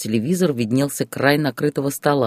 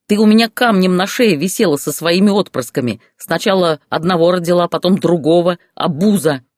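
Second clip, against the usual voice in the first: higher, louder screeching rage; shrieking; 5 semitones higher, 5 dB louder than usual. Acted. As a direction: shriek the insults out of control. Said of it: "уже визжал он". (Борис в ярости визжит на жену, высоко и громко)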